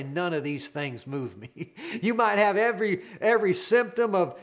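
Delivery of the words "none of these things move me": spoken together with the congregation. Shown as a demonstration. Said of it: "say it with me right now".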